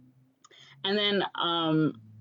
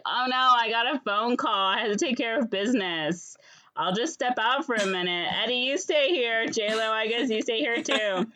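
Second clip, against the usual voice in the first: higher-pitched imitation of the bride; breezy bride; 5 semitones higher than usual. Fran leaves Eddie with her friend, higher breezy voice. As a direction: act out a chirpy excuse. Fran excuses herself, retold.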